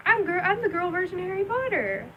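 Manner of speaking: put-on high-pitched childish British accent; little British accent. Child in a cape announcing her costume, playful British accent. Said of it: "British accent and my little cape".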